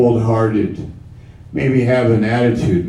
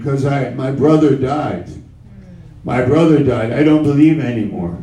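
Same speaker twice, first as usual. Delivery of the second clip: doubter's voice; 3 semitones higher, faster than usual. Acted. Voicing a doubter in sermon.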